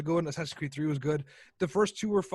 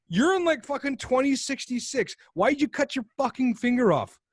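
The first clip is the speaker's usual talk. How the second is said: incredulous rant; 5 semitones higher than usual. Retold or imitated. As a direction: demand an answer in disbelief. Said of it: "And I'm like".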